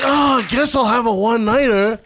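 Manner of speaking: imitating someone unwilling and put off; disgusted. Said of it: "he's saying it like".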